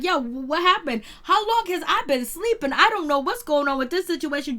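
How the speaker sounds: high, loud, bewildered rambling; confused waking. Retold or imitated. Alex woken by Donna's screaming, bewildered and loud. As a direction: sound freshly woken and lost. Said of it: "He was like".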